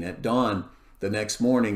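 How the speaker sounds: ordinary talk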